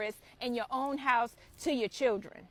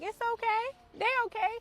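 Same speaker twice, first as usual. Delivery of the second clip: higher-pitched reassuring quote; acted reassurance; 10 semitones higher, faster than usual. Onlooker responding to parents yelling at their kids, high-pitched reassurance. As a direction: soothe them in a lifted, high voice.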